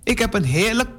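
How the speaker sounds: high rising "Delen?"; indignant surprise. Acted. Girl told to share her pear, indignantly surprised. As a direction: yelp the word as if outrageous. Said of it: "roept Inge".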